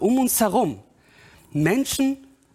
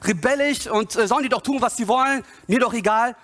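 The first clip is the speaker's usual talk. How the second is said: higher-pitched dismissive parent act; acted who-cares complaint, pitched up; outward indifference; 5 semitones higher, faster than usual. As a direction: brush it off as a fed-up parent. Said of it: "Äußerlich sagst du".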